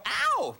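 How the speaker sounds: imitated whoop. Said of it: "Who would go".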